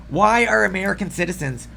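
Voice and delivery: slightly hoarse, frog in the throat. Real, not acted. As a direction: talk through a froggy throat. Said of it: "I feel like I have a frog in my throat".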